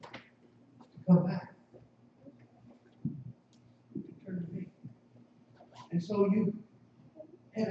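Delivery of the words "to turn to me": slow eerie whisper; a ghostly whispered call. Acted. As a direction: whisper it like a voice from far off. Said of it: "you hear this voice calling to you".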